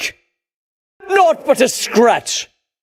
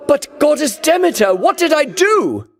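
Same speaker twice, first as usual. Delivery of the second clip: raised plea; 5 semitones higher than usual. Acted. Hero pleading with the goddess, raised and bewildered. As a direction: call out to her, hurt and bewildered.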